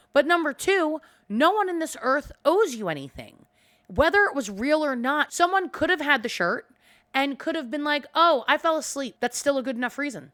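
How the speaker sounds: ranting hard, voice climbing; heated rant. Real, not acted. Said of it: "I am getting myself all worked up".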